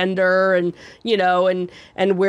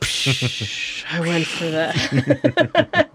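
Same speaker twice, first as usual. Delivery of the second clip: laughing; 3 semitones lower, much slower than usual. Real, not acted. Laughing at being fooled.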